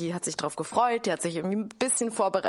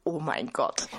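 shocked whisper; 5 semitones lower, slower than usual. Real, not acted. Disgust at swimming pool date.

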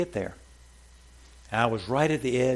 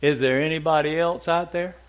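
higher, louder desperate call; comic panicked shout; 5 semitones higher, 6 dB louder than usual. Acted. Man on the cliff, told to let go, calls loudly for someone else. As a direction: yell it out for anyone else. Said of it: "The man says".

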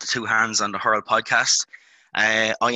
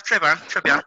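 bad French; 7 semitones higher, 4 dB louder than usual. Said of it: "how bad French sounds in a Mullinavat accent".

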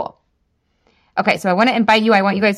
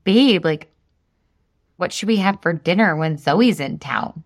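mock asking husband; 3 semitones lower than usual. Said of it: "What if I was like".

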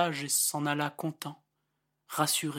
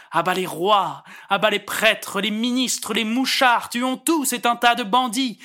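loud, higher mob slogans; crowd shouting; 5 semitones higher, 7 dB louder than usual. Acted. The furious crowd on the barricade, shouting slogans. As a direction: rouse the street like an angry mob. Angry crowd voiced in poem.

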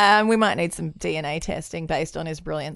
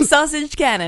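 giggling through the words; hiccup giggles; 7 semitones higher than usual. Real, not acted. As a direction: laugh as you say it. Laughing while repeating.

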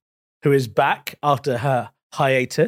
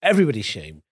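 Radio Four voice. Acted. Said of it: "using your Radio four voice".

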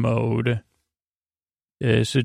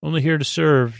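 a hint of an obliging droid; C-3PO; 3 semitones higher than usual. Robot dog K9 offering service, lightly imitated droid voice. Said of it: "sounds a bit like C three P O".

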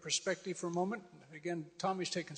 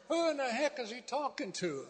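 higher, disbelieving inner voice; incredulous thought; 6 semitones higher than usual. Retold or imitated. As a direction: scoff at it as if the man were crazy. His own inner disbelief.

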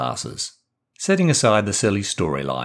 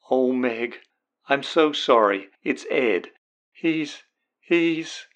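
tearful; 4 semitones higher, slower than usual. Acted. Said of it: "There is loud sobbing".

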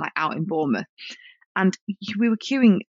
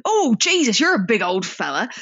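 imitating a brash bloke; 3 semitones higher than usual. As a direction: do the brash bloke gawping at a tall man. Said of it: "he was talking like that".

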